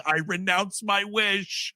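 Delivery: slow, drawn-out solemn quote; lightly voiced slow vow; mock solemn. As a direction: stretch each word like a sermon. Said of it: "adult in this movie saying".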